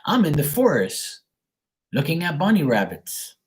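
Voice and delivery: swooping, singsong show-off quote; lightly mocking an oversharer, pitch swooping up and down; mock bragging. Reader imitates people oversharing their business, mock bragging.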